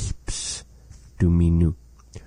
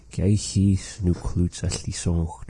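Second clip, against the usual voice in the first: slow demo. Shown as a demonstration. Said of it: "This is the phrase of the day".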